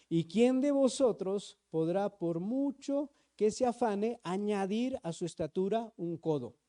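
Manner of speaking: steady, formal reading of the passage; preacher reading Matthew to the church; scripture reading. Acted. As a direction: read it out as holy text. Pastor reads Matthew passage aloud.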